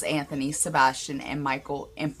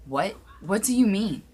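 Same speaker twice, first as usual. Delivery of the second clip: yelling in disbelief; 4 semitones higher than usual. Acted. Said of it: "I yelled".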